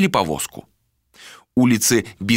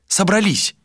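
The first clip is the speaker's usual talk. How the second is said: defiant retort; 10 semitones higher than usual. Acted. Malika's defiant retort in quarrel.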